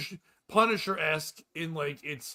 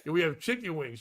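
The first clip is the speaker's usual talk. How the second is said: patient waitress; 5 dB louder than usual. Retold or imitated. Waitress patiently reads out menu.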